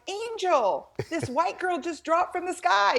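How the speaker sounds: high, sassy girlfriend impression; imagined girl voiced high and sassy. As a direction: play a chatty girlfriend marvelling. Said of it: "I'm thinking girlfriend's saying".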